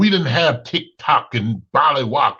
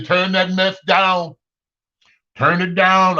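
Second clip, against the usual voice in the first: parent command; 3 semitones higher than usual. Retold or imitated. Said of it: "I just say".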